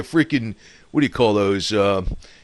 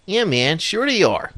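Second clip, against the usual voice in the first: sarcastic; 6 semitones higher than usual. Real, not acted. Scoffing at conspiracy theorists.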